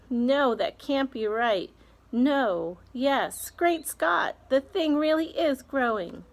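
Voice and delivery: a fussy aunt who can't believe her eyes; aunt in disbelief. Acted. Aunt marvels at growing peach.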